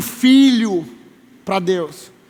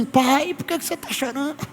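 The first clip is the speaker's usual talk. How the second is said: hushed imitation of a small son; tiny, soft voice imitating a child; child's question; 3 semitones higher, 8 dB quieter than usual. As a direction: ask very softly, as a puzzled child. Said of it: "e meu filho assim".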